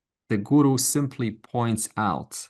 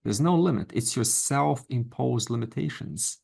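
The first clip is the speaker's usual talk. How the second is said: usual speaking voice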